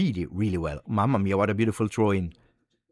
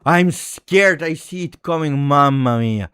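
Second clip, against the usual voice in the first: ordinary talk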